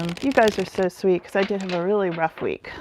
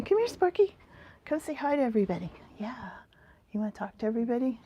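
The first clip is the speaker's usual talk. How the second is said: talking to the dog; 3 semitones higher, 7 dB quieter, much faster than usual. Real, not acted. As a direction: coax the dog over sweetly. Calling her dog to the camera.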